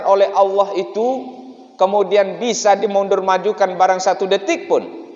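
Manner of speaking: loud, high sermon delivery; fiery preaching. Acted. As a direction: preach it out with full force. Preaching at full force, loud.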